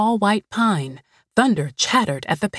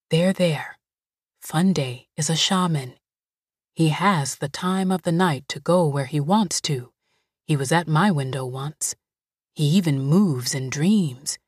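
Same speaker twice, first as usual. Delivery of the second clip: calm voice; 2 semitones lower than usual. Acted. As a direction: settle her down gently. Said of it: "she said in a calm voice".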